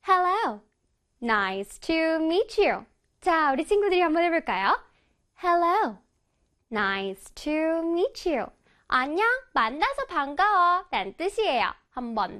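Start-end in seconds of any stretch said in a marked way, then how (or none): 1.2-2.9 "Nice to meet you" drawn out note by note; very slow, sing-song "Nice to meet you"; piano-like intonation. Shown as a demonstration. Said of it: "내 몸이 마치 피아노가 된다고". 6.7-8.5 "Nice to meet you" drawn out note by note; very slow, sing-song "Nice to meet you"; piano-like intonation. Shown as a demonstration. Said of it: "내 몸이 마치 피아노가 된다고".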